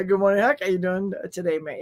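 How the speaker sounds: light, lingering mock Aussie lilt; stuck Australian accent. Host greeting Huck in chat, lingering Australian accent. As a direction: slip back into imitation Australian. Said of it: "I can't get out of the Australian".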